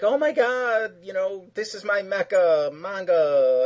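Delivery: high, slow, starry-eyed gushing; fanboy gush. Retold or imitated. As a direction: gush over it like a fan. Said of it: "he's all like".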